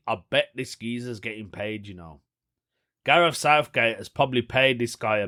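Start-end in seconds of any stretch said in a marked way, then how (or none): 0.1-2.2 inner voice. Retold or imitated. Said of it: "In my head, I was thinking".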